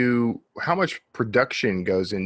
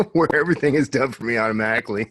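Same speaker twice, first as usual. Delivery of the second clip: laughing; faster than usual. Real, not acted. Laughing about automatic production.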